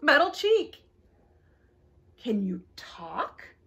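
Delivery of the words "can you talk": breathy hushed question, slow; a slow tender whisper; soft whisper. A narrator's reading. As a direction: whisper it gently so as not to startle. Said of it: "asked little robot softly".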